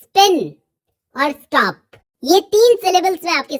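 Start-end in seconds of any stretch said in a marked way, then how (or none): 0.0-0.4 स्पिन with only a weak puff on the P; lightly released P in स्पिन. Shown as a demonstration. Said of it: "पी पर वीक puff पड़ रहा है". 1.3-2.0 स्टॉप with no puff on the final P; unreleased P closing स्टॉप. Shown as a demonstration. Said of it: "पी पर puff पड़ ही नहीं रहा है".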